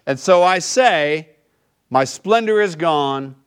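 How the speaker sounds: slow, weighty scripture reading. Acted. Pastor reads Lamentations slowly to the congregation, grave reading.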